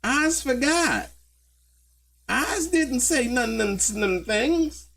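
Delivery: high, slow silly voice; mock dumb voice. Streamer mocking the witness's memory, high and slow. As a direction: play the witness as clueless.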